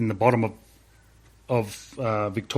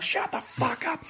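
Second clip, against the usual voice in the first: mock curt order, much higher; hammed-up shut-down from above; snapped order; 12 semitones higher, 7 dB quieter than usual. Instructor silences recruit.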